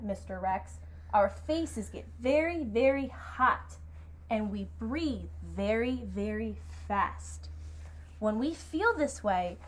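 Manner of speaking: slow, deliberate picture-book narration; unhurried, expressive storytelling; story read-aloud. A narrator's reading. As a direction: guide young listeners with drawn-out phrases. Reads story to children.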